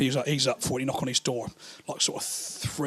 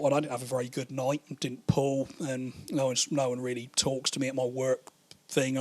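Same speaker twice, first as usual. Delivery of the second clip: low, soft, sorry-for-himself mumble; a drunk feeling sorry for himself, quietly; mopey self-pity; 3 semitones lower, 6 dB quieter than usual. Retold or imitated. Mate's self-pitying inner thought.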